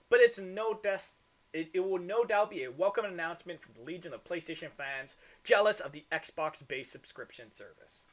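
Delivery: winded after a long read; short of breath, pushing on. Real, not acted. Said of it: "I gotta catch my breath".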